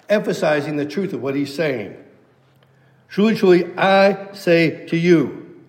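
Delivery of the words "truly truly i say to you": slow, weighty, emphatic declaration; a preacher voicing Jesus with solemn command; authoritative. Shown as a demonstration. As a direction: proclaim it with full authority, drawing out each word.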